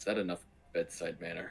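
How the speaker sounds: barely-there murmur, very quiet and hushed. A player's character turns to another character and asks, very quiet. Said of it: "kind of very quietly go".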